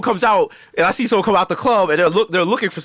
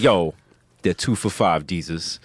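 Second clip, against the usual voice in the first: mock deadpan cashier; 11 semitones lower, 5 dB quieter, slower than usual. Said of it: "And Shorty was like".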